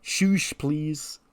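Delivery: very high, slow shush. Retold or imitated. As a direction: hush the crowd in a squeaky high voice. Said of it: "He goes".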